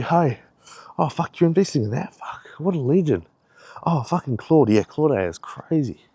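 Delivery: lightly salesy enthusiasm; salesy banter. Pretend. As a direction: hype a mate up like a salesman. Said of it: "I'm talking all salesy today".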